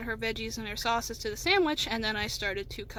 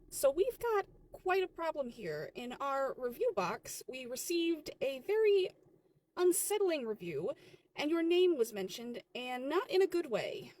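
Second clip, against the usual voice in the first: slow, measured, official delivery; grave manager; 2 semitones higher than usual. Acted. Manager tells worker about a bad review, measured. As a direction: lay out the bad news slowly. Manager opens a disciplinary talk.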